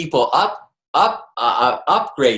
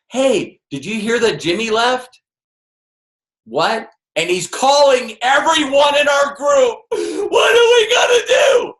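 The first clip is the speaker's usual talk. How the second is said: higher and louder, a mock panicked shout rising to a cry; panicked call; 10 semitones higher, 4 dB louder than usual. Teammate calling about Jimmy leaving, a mock panicked shout. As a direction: play the frantic teammate who just heard the news.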